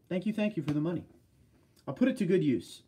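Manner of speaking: normal talking voice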